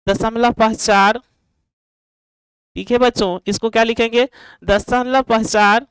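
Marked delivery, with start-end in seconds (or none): 0.1-1.2 drawn-out words for writing down; slow dictation. Real, not acted. Dictating words while writing them. 4.6-5.9 stretched out as if writing along; slow dictation. Real, not acted. Dictating words while writing them.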